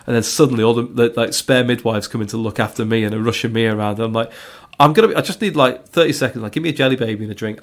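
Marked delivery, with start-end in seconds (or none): 4.8-7.6 insistent protest. Retold or imitated. Dad waving off midwives fussing over him, insistent protest. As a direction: retell it as an urgent brush-off.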